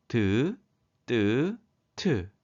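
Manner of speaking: 드, 뜨, 트 as separate, evenly spaced syllables; consonant demonstration. Shown as a demonstration. Teacher models consonants grouped by strength, 드, 뜨, 트 sounded out separately. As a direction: sound out 드, 뜨, 트 one at a time: plain, tense, aspirated. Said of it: "자음들을 발음해 볼까요".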